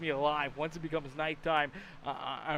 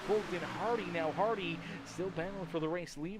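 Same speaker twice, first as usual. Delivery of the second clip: brisk play-by-play call; steady live sportscaster read; race commentary. Acted.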